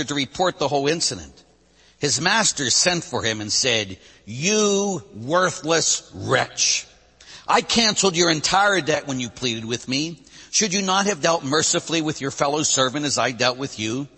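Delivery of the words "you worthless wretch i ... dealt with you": in anger. Acted. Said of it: "Then in anger".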